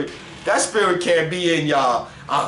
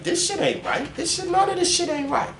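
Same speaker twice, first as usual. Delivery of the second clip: put-on much higher, indignant voice for his old self; imitating his younger self. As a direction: squeak out his younger self's complaint. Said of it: "So I always been like".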